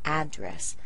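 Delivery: "Address" stressed on AD, falling after; first-syllable stress. Shown as a demonstration. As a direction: say "Address" as the noun, strong open first vowel. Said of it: "they both work fine".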